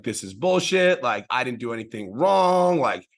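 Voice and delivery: a man retelling how fed up he was with his broken toe; retold angry rant. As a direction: replay the frustration of being injured, half in earnest. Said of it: "I was so angry and upset".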